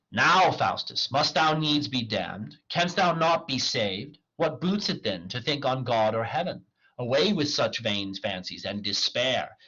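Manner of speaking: measured, declaimed self-questioning; dramatic soliloquy. Acted. Faustus argues with himself over damnation, declaimed. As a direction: question yourself with theatrical weight.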